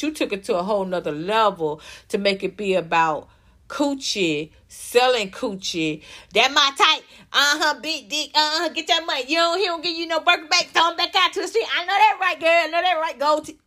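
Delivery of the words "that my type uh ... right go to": higher, fast, hammed-up hype girl; mock girly hype. Mocking the rapper's persona for the viewers, higher and quick. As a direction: lampoon a shallow party girl, higher and quicker.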